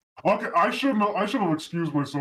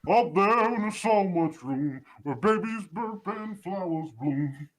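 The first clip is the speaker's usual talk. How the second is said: demonic cartoon voice changer; South Park Satan; 4 semitones higher, slower than usual. Real, not acted. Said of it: "Like South Park Satan".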